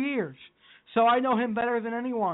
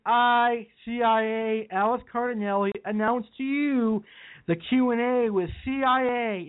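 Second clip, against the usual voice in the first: passionate closing argument; 3 semitones higher than usual. Pretend. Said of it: "ladies and gentlemen of the jury".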